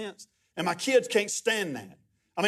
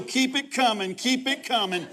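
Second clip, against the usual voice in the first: higher-pitched imitation of eager demand; eager urging; 5 semitones higher than usual. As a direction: urge the refill on, playfully. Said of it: "And he'd go".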